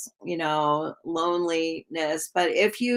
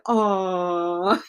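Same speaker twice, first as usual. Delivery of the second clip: mock adoring aw. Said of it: "And he's like".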